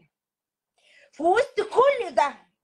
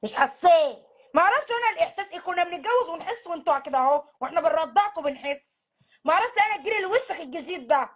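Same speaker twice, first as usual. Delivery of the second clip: faster, exasperated mom voice; mother ranting. Acted. Mother ranting that her generation never needed to feel love. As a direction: scoff at the new generation.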